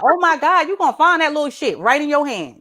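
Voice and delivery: high-pitched mock horror; alarmed warning. Shocked mother warning son, mock horror. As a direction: exclaim in comic alarm.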